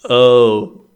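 loud hammed-up moan breaking into laughter; overdone moan with a laugh; laughing mock moan. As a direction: ham up the passion while cracking up. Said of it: "Andy said".

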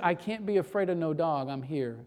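low, soft retold declaration, dropping at the end; quiet resolve.

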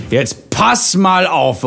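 high, drawn-out mock scolding; slow, emphatic telling-off, playfully imitated; imitated angry mother. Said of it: "auch, äh, entsprechend sauer auf mich war".

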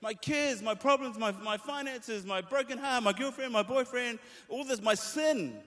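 high-pitched desperate prayer, acted; acted heartbroken appeal to God; crying out. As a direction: plead upward, then pour out the troubles. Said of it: "you're crying out and going".

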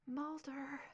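weak, thin whisper; barely there, fading voice; faint and thready. Acted. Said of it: "Her voice was faint and thready".

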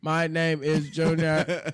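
slow, stiff robot monotone; toy robot voice. Pretend. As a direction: say it slowly like a robot. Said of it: "I am a robot".

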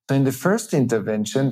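ordinary talk, nothing marked

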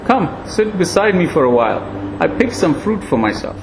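put-on high, frail old sage voice; thin ancient voice, gently chiding; frail old monkey.

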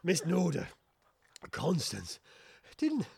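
halting, winded stammer; out of breath. Acted. Inspector catches up with the companions who left him, winded. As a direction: gasp it out in broken bits after running. Inspector arrives having run after coach.

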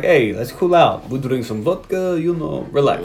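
slow, laid-back imitation of a rapper character; lightly voiced cool drawl, slowed down; rapper impression. Imitating a rapper's character calming the Russians down, slow and cool. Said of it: "Your rapper impression is pretty good".

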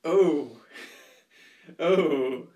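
disgusted groaning oh; grossed out. Real, not acted. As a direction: recoil in disgust, loud. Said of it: "I sound grossed out".

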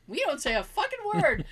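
imitated fed-up outburst, high with swooping emphasis; exasperated. Mother explaining to her child, exasperated.

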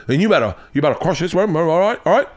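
badly faked British host pressing the point; horrible British accent. British host urging comic to crush it, bad British accent. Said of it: "I'm doing once again horrible accent".

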